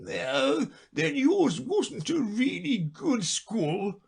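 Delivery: high, slow, relieved sigh of a voice; a creature glad it wasn't outdone; mild relief; great relief. Acted. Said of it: "in a tone of great relief".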